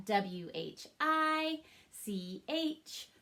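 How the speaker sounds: each letter said slowly and evenly; slow letter tapping. Shown as a demonstration. Teacher arm-tapping letters with students, slow and even. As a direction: tap out every letter slowly. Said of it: "Let's arm tap that".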